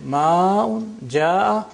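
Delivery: "Ma'un, ja'a" as maaa-un, jaaa-a; lengthened vowel. Shown as a demonstration. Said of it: "So the vowel is lengthened".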